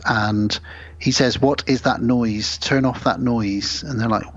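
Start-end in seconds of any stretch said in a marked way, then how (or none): 1.4-3.8 slow, stilted, word by word; slow stilted alien. Retold or imitated. Alien husband demands the noise stop, slow and stilted. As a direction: speak like you just learned English. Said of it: "Why are they speaking like this?".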